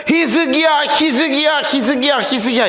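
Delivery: 이름을 높게 불러 점점 가라앉히기; 약 올리듯 이름을 되풀이; 조롱하는 외침 흉내. Retold or imitated. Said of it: "그러면서 자꾸 뭐라고 하냐면". (랍사게가 히스기야를 조롱하며 부르는 흉내)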